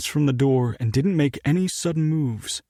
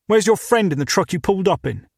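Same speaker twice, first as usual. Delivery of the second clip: put-on British accent; 6 semitones higher than usual. British owner questioning.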